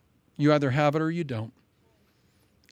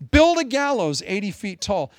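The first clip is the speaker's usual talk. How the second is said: barked order; 4 semitones higher, 4 dB louder than usual. Retold or imitated. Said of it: "So he orders".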